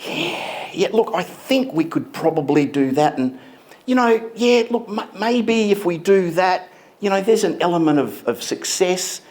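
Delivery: waffle through the diagnosis unsure; unsure doctor. Retold or imitated. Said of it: "you sit down and he says".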